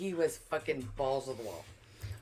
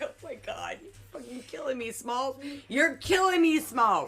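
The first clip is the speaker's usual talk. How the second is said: movie-quote impression; 8 semitones higher, 3 dB louder than usual.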